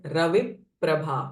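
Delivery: "रविप्रभा" with lips pressed before प्र; pressing effect. Shown as a demonstration. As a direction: hold the p closure in "रविप्रभा" before releasing it. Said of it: "Pressing effect". ("रविप्रभा" in two parts, pressed p between)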